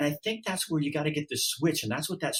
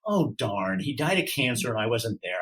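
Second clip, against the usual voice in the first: mock flustered God; 2 semitones higher than usual. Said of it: "God's not gonna look back and go".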